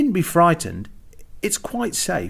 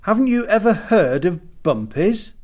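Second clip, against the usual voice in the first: higher, incredulous little-man question; a touch of astonishment, pitched up; Mister Jug; 7 semitones higher than usual. A narrator's reading. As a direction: ask as if mildly scandalised. Mister Jug amazed at Marion.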